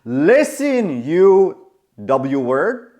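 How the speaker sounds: mock fed-up outburst, slowing for emphasis; losing his temper. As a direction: imitate a friend snapping at someone. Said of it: "he just loses it".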